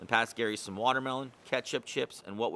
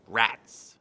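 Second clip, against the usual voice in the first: grumbling gull voice, foiled; a disappointed little grumble; frustrated gull; 3 semitones lower, 5 dB louder than usual. Acted.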